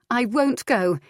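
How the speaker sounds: wife refuses her husband flatly; Adair refusing. A narrator's reading. Wife refusing husband's demand, defiant female voice. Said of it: "Adair told her husband".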